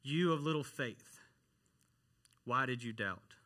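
understated, disappointed reproach with a pause midway; almost disappointed. Retold or imitated. Jesus to Peter after catching him, mildly disappointed. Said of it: "a tone of almost disappointment".

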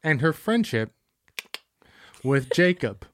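lightly voiced dramatic trailer read; a hint of an epic movie trailer narrator. Friend reading the Twilight synopsis like a trailer. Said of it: "in the voices that you do it in".

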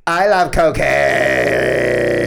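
slow, lazy drawl; slow drawling impression. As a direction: drag each word out lazily. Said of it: "that Julianne Fox".

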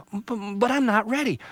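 put-on high, small childlike voice for the tree; a young tree, puzzled and worried; little tree voice. Little Tree puzzled by squawking Jaybird, high voice.

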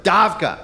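"davka" with a guttural Hebrew D; davka pronunciation. Shown as a demonstration. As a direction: say "davka" spitting a little. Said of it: "Say, say this word".

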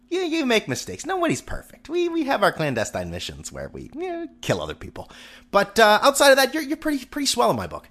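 high, sweet mock-tender voice; talking to America like a child; mock sweet address. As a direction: coo it like a doting parent.

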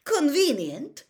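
high, loud, drawn-out disdain; slow, rising, disdainful query. A narrator's reading. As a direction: throw the word back as a scornful question. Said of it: "he was trying to sound disdainful".

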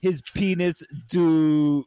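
playful, hammed-up German accent; teasing German accent, words stretched out; sexy German accent. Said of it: "you did a sexy German accent".

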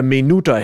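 minuta with stress on the middle "nu"; Russian word for minute. Acted. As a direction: say minuta as mee-NOO-tah, Russian-style. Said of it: "That's how you say minute in Russian".

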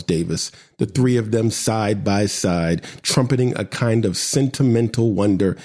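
measured poetry recital; poem reading. Acted. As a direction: read it like a spoken-word poem. Reads his poem aloud.

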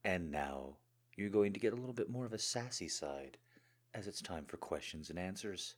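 hoarse, scratchy throat; frog in throat. Real, not acted. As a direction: speak through a frog in the throat. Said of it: "the little froggy frog in my throat".

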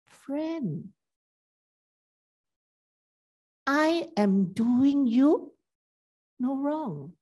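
loving and gentle. Acted. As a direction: reassure the grumbling worker gently. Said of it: "he said very lovingly and very gently".

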